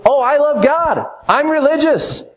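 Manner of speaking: high, sing-song fake piety; high mocking voice of a self-satisfied believer; mock pious hypocrite. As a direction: mimic a smug churchgoer, pitched high. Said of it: "tell you".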